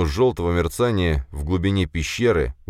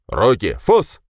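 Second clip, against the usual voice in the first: loud barked command, jumping high on Фос; shouted command; 5 semitones higher, 7 dB louder, slower than usual. Acted. The man loudly orders the dog to attack. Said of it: "крикнул мужской голос".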